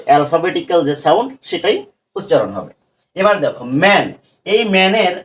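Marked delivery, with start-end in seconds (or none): 3.8-4.0 "ম্যান" with a short open "æ"; short A sound. Shown as a demonstration. Teacher showing pupils the CVC rule, short vowel in "ম্যান". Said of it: "এর উচ্চারণটা কিন্তু এ এর মতন".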